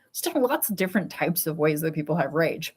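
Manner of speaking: whispered aside, no voice; softly whispered confession. Real, not acted. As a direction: breathe it out as a secret. Sudden aside about rage.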